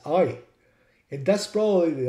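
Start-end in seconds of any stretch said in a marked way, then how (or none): 0.1-0.4 A said as "eye", imitating an English driver; I, an English-accented letter A; driver's long A. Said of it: "I realized he says".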